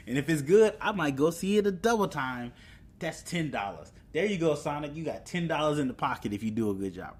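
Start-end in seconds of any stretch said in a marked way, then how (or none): none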